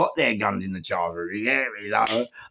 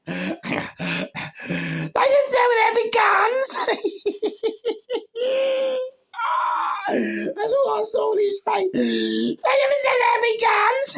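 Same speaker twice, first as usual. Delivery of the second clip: high squealing laughter through the words; laughing shrieks; 7 dB louder than usual. Retold or imitated. Retelling the cop's shocked face, high shrieking laughter. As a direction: crack up while quoting the cop.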